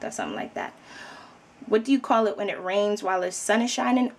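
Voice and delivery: ordinary delivery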